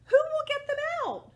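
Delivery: high, quick plea for help; urgent story question. Acted. Animals asking who will rescue cow, high urgent call.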